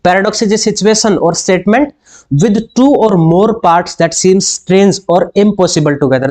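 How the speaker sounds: dictating a quiz question, word by word; teacher reading an exam question slowly. Acted. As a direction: read the question slowly and deliberately. Reads definition aloud.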